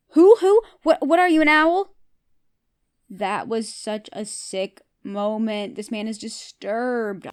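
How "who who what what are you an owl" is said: higher and louder, incredulous mocking; mock owl joke. Real, not acted. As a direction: hoot it back, laughing at him. Mocking Steven's "who" as owl.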